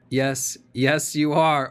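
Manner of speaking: rising loud, insistent cut-in; loud interjection. Real, not acted. Lawyer overriding the questioner, loud and insistent. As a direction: lawyer cutting in to shut the question down.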